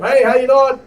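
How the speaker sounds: shouted high and loud greeting; loud radio shout. Shown as a demonstration. Instructor showing a bad loud radio call. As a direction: yell it into the radio like a rookie. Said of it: "doesn't mean you gotta let it bring your voice up".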